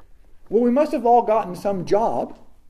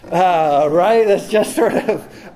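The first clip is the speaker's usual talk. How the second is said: laughing aside; 8 dB louder, slower than usual. Real, not acted.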